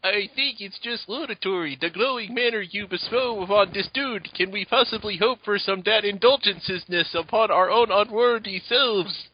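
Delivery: lightly put-on pompous reading; mock grandiose speech; a hint of an overblown cartoon voice; Tristan's voice. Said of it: "read it in, uh, Tristan's voice".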